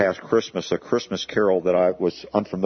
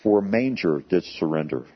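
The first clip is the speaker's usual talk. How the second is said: slow, measured carol verse; poem recitation; slower than usual. Acted. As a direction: lay out each line slowly, solemnly.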